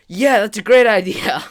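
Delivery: loud mock-enthusiastic cheer of approval; eager agreement. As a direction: imitate an overeager friend, high and loud. Eager friend cheers the idea on.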